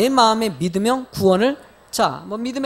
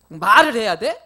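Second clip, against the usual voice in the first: stiff curt husband; 7 dB louder than usual. Retold or imitated. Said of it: "그래서 딱딱해가지고".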